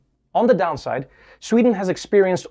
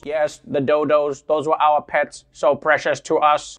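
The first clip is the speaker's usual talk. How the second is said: put-on old speech synthesizer; 2 semitones lower than usual. Aliens answering human.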